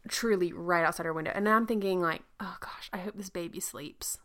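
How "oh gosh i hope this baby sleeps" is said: mock worried whisper; whispered thought. Expectant mother thinking of her sleeping baby, whispered. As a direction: whisper it like a silent wish.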